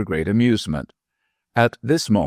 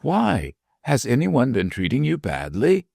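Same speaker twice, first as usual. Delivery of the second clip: high, alarmed question; 6 semitones higher than usual. A narrator's reading. Dwarf alarmed at his leaving.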